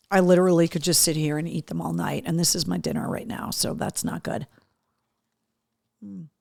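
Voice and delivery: talking while chewing; mouth full. Real, not acted. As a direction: speak through a mouthful. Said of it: "rudely talking with my mouth full".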